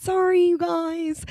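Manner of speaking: high, slow, cutesy sorry; drawn-out little apology; mock apology. Real, not acted. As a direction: pout out a sugary sorry.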